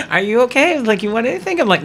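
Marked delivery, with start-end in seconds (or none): 0.1-0.8 high-voiced polite check-in; flight attendant. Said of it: "She's like". 1.0-1.6 high, light offer of service; flight attendant. Retold or imitated. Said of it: "She's like".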